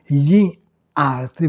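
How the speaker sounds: "gli" set apart from "altri"; words separated. Shown as a demonstration. Teacher showing beginners how to start out, words separated. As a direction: say "gli", then "altri", as two distinct words. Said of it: "Vous découpez les deux mots".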